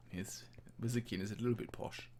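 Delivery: a light posh English accent, lightly put on; just a hint of a posh English wizard. Wizard Keen presents himself in a light posh English accent. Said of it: "put on a posh accent a little bit".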